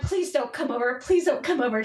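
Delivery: mildly urgent repeated plea; understated retold pleading. Retold plea to mother-in-law.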